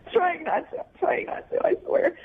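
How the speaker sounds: tearful, voice dropping out into breath; fighting back tears. Real, not acted. Woman told by her date not to cry, tearfully holding back. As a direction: insist through real tears, voice giving out. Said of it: "don't, don't cry".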